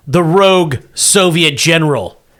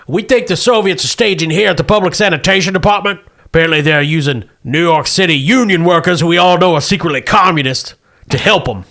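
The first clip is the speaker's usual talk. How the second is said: military officer giving a briefing; briskly brief the troops; Marine captain voice; 3 semitones higher than usual. Acted.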